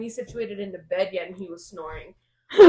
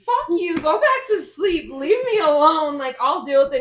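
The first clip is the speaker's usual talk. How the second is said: angry snap; 7 semitones higher, 10 dB louder than usual. Retold or imitated. Exhausted mom snaps at husband.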